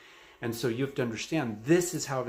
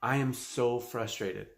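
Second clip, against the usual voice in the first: slow, emphatic frustrated I am so frustrated with weight on so; hammed-up exasperation, slowly; slower than usual. Shown as a demonstration. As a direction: lean into the frustration, drawing it out. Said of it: "If I say".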